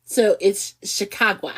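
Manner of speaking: "Chicago" slow, as "Sha-caw-gwa", a weak Chicago try; half-hearted Chicago accent, slowly; Chicago accent attempt. Shown as a demonstration. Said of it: "you do it much better than I do".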